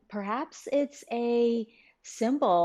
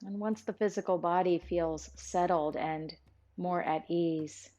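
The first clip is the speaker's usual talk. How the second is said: calm, even meditation guide with long pauses; guided meditation. Real, not acted. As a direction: ease listeners inward, phrase by phrase, leaving room to breathe.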